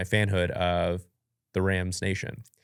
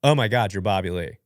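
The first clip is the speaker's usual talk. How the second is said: a blurted, louder "Oh my God" that drops on "Bobby Lee"; starstruck blurt; 3 dB louder than usual. Retold or imitated. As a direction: gush like a fan who can't help it. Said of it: "I literally said the words".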